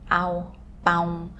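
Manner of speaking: "ow, bow" as Portuguese nasal vowels; Portuguese nasal sound. Shown as a demonstration. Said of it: "in Spanish, uh, in Portuguese".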